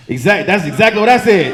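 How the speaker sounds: loud, high, emphatic shout; mock eager yell; excited agreement. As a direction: yell it like you won the point. Agreeing loudly with cop.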